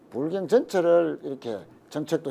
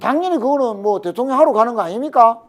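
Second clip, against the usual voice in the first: lightly voiced party leader, higher and emphatic; Kim Dae-jung; 4 semitones higher, 5 dB louder than usual. Party leader retold encouraging his deputy, lightly imitated. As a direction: retell a leader's hearty approval in a raised pitch. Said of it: "김대중 대통령이 엄청 웃으셨겠네".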